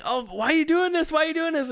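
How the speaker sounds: high, wailing imitation of a distraught man; mock freak-out. Dan to Roseanne as his client gets scared, mock freak-out. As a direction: plead in exaggerated distress. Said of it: "And Dan's freaking out".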